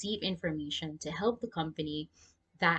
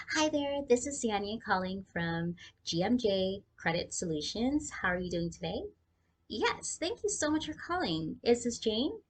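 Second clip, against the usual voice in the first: put-on higher, upbeat Valley girl accent on a customer-service call; sweet, eager Valley girl accent answering the phone; 3 semitones higher than usual. Shown as a demonstration. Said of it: "I'm gonna give you a Valley girl accent".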